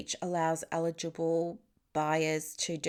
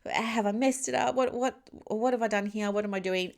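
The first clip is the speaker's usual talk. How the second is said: spiral into self-doubt, pitched way up; freaking out; 6 semitones higher than usual. Retold or imitated. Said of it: "I'm thinking".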